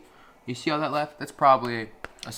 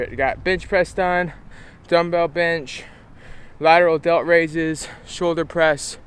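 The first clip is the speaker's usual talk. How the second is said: pumped up; 5 semitones higher, 10 dB louder than usual. Real, not acted. Post-workout recap.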